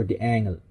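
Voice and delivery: "D'Angelo" with ng in place of the j. Shown as a demonstration. Reviewer trying out the name, "D'Angelo" with an ng sound. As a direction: say "D'Angelo" starting dee-ANG. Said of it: "It's either D'Angelo or D'Angelo".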